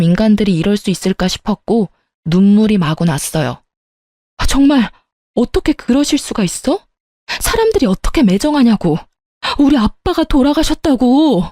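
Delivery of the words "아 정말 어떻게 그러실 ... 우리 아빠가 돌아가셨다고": high, tearful yell about her father; wife shouting at husband at her father's funeral; crying shout. Retold or imitated. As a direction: cry it out in grief and rage. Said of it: "크게 소리쳤습니다".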